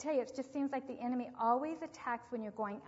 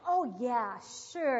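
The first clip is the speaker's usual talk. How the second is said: lightly voiced little boy, a bit louder; eager little boy; 8 dB louder, much slower than usual. Aunt retelling nephew Danny's eager reply, lightly voiced little boy. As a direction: chirp it like a keen five-year-old.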